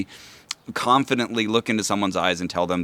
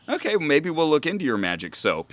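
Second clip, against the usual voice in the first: mock accommodating; 7 semitones higher than usual. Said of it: "sometimes we'll say".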